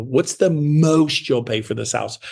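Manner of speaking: slow, drawn-out mocking question; mock agent. Coach mocking agents at open houses, slow mock agent. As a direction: draw it out to poke fun. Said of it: "I make fun of those agents".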